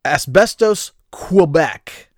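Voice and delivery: "Quebec" said kwuh-BECK after a deliberate "Asbestos"; American way. Shown as a demonstration. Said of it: "I'll do it the American way".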